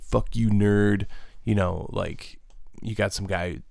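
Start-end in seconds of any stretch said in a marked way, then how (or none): 0.0-1.1 imitating a jock. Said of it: "jock mentality of just kinda like".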